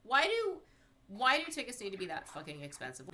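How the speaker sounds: high, loud indignant outburst; outraged rant. Real, not acted. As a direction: vent at the prices. Ranting about ticket prices.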